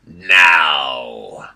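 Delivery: loud, low hobgoblin shout; barked command. Acted. Hobgoblin shouts an order to his guards.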